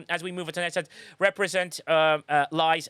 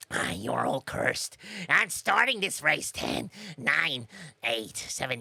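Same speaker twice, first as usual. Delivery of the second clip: spooky voice; 3 semitones lower, slower than usual. Acted. Ominous countdown voice.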